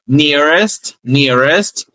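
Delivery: nearest with a full t at the end; model pronunciation. Shown as a demonstration. Teacher modelling nearest for the class, careful. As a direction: say nearest clearly. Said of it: "Então, ó".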